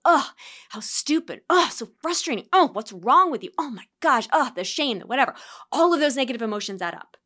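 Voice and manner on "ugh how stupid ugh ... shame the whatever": higher, exasperated inner voice; mock self-scolding. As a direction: act out the annoyed groans. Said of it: "each time you go".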